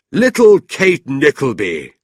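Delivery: mocking toast. A narrator's reading. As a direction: toast her name leeringly. Gentleman toasts her, slow.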